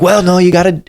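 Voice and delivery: high, quick well-no; apologetic caseworker. Retold or imitated. Caseworker telling him it's court ordered, high voice. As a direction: lightly voice her gentle refusal. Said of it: "And she's like".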